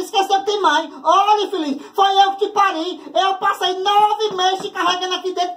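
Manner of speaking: high, nagging mother voice scolding; dramatic mom calling son. Retold or imitated. Mom on the phone scolding her married son, high and nagging. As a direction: whine like a wounded dramatic mother. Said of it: "já liga desse jeito".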